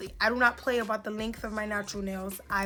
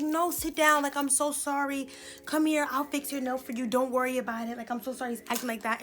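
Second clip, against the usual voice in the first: apologetic coworker; 3 semitones higher than usual. Retold or imitated. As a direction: imitate her pleading apology, pitched a little up. Voices apologetic coworker soothing her.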